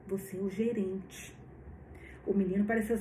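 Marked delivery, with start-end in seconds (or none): 0.1-1.4 slow faint whisper, last strength. Acted. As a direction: breathe it out, barely voiced. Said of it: "o Wallace sussurrou".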